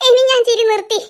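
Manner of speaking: a giggle leaking through the promise; still laughing. Acted. Friend claiming he stopped laughing, still laughing. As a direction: try to sound serious but laugh. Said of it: "നിർത്തിയിട്ടില്ല".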